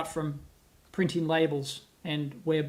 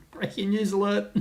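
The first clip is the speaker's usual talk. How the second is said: mock news flash with a laugh; laughing mock announcer. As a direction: chuckle through a pretend bulletin. Laughing through the mock bulletin.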